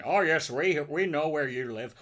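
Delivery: a menacing Northern Irish threat, like a balaclava-clad geezer from the eighties; Northern Irish accent. Retold or imitated. Imitating an eighties Northern Irish terrorist's threat to the viewers, Northern Irish accent. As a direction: put on a Northern Irish accent and sound sinister. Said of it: "heard Northern Irish accent".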